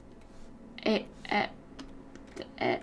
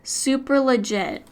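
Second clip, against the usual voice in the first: sarcastic; 3 semitones higher, 3 dB louder, slower than usual. Pretend. Sarcastic about the shortcut.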